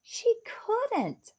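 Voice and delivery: high proud retort; proudly. Acted. Beauty telling her parents she beat the witch, proud. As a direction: say it with proud triumph. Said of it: "I said proudly".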